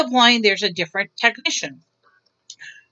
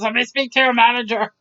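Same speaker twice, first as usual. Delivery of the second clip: mock Karen; faster than usual. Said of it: "a Karen that says".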